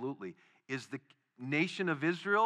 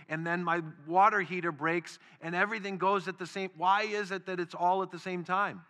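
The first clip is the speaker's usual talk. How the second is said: rising, louder exasperated complaint to God; frustrated prayer; 3 semitones higher, 4 dB louder than usual. Retold or imitated. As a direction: pile up the grievances, getting more fed up.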